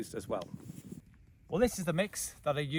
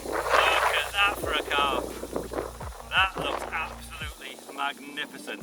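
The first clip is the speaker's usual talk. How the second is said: raised voice against the wind; shouting over wind; 5 semitones higher, 5 dB louder than usual. Real, not acted. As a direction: call it out loud over gusts. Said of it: "hopefully you can hear me over the wind".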